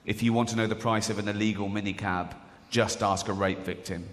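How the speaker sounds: low, sober radio-ad announcer; advert voiceover. Acted. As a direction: imitate a grave radio warning. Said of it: "And the voiceover goes".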